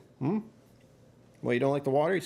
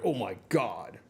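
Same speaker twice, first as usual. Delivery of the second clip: mock amazement; 4 semitones higher, slower than usual. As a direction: voice climbing much higher into a stunned gasp. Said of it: "I was like".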